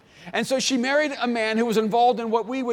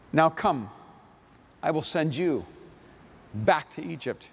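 scripture reading. Acted. Pastor reading the Moses story to his church, measured scripture reading.

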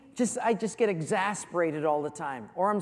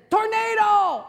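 a high, loud yelled warning; high shout of alarm; 14 semitones higher, 9 dB louder, slower than usual. Acted. Hawaiian prisoner faking alarm to distract guards, high shout. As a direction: cry it out to make them look up.

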